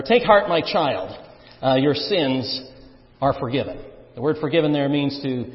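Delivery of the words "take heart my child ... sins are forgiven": put-on "Take heart, my child" drawn out slowly; slow and gentle. Shown as a demonstration. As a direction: ease it out slowly, tender.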